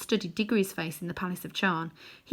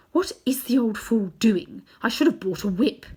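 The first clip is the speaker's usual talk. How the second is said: impatient witch; 3 semitones higher, 4 dB louder than usual. Acted. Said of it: "as if to herself".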